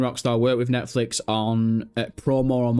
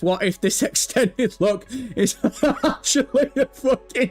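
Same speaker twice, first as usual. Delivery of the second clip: high voice breaking into laughs; laughing through words; 7 semitones higher than usual. Real, not acted. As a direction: fight the giggles mid-sentence. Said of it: "trying to fucking straight face it".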